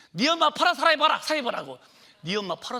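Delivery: high, loud mocking yell with a laugh; a mother shouting scornfully at her son begging for a jacket; scornful mother's yell. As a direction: scoff at the boy as you shout. Mother mocking son's jacket request.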